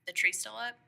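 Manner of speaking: retold morning check, lightly questioning; imitating his wake-up question. Husband knocking to wake her about the tree, mock questioning. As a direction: ask it like someone poking into a bedroom. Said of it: "knocked on the door and he was like".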